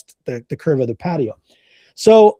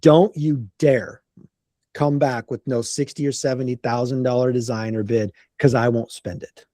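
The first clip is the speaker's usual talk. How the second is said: serious warning; 5 semitones lower than usual. Retold or imitated. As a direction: warn him off in dead earnest. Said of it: "looked at me very serious".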